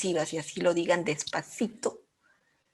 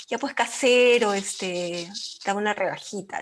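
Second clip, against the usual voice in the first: coaxing haggle. Retold or imitated. Lima shopper to the shop owner, coaxing for a small discount. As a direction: sweet-talk the shopkeeper into a discount. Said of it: "Le decimos".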